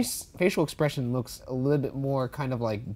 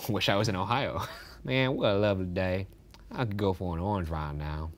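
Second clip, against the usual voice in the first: put-on low, easygoing Southern accent; laid-back Southern musing; 4 semitones lower, 4 dB quieter than usual. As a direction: ease into a Southern accent, softer and lower. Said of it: "I'll do a Southern accent instead".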